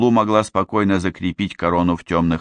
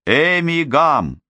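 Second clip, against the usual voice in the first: higher, slow joyful call; joyful exclamation; 8 semitones higher, slower than usual. Acted. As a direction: call out her name with delight. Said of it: "воскликнула Озма".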